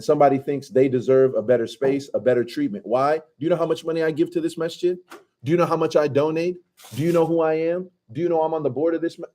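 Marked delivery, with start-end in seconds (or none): 3.2-9.3 higher, haughty mock indignation; a hammed-up self-important rich man at the masjid; arrogant donor. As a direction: play the entitled big donor demanding respect.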